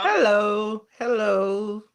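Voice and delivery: put-on playful London accent greeting; London accent hellos, sing-song. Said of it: "I'm putting on my London".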